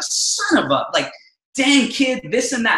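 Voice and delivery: mock grumbling at a kid; retold irritation. Father recalls griping at his wild little son, retold irritation. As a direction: grumble as if irked, half in earnest. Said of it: "I remember I'm mad".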